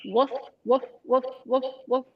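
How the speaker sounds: short woofs; dog barks. Shown as a demonstration. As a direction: bark like a dog. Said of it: "So I like to do dogs".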